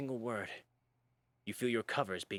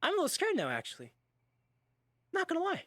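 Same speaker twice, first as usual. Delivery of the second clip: Colonel Sanders voice; 3 dB louder than usual. Acted. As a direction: react as the uneasy Colonel. Colonel voice scared reaction.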